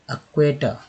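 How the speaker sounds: एक्वेटर with an open ए, not इ; correct pronunciation. Shown as a demonstration. Teacher modelling एक्वेटर, not इक्वेटर. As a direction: say एक्वेटर starting on ए. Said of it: "इक्वेटर नहीं".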